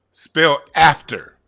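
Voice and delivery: slow, drawn-out quiz question; quiz master. Shown as a demonstration. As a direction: spell it out slowly like a game host. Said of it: "Let me give you one more try".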